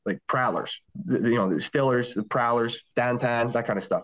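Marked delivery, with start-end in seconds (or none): 0.3-0.8 Pittsburgh local's pronunciation; casual Pittsburgh-accented delivery. Shown as a demonstration. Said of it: "if you were just talking to somebody in Pittsburgh". 1.5-3.5 casual Pittsburgh vowels; Pittsburgh-accented list, squashed vowels. Shown as a demonstration. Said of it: "talking to somebody in Pittsburgh".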